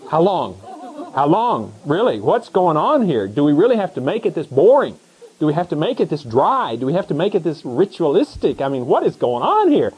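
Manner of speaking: mock despairing cry to the Lord; exasperated sigh of a bored churchgoer; exasperated lament. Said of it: "I said".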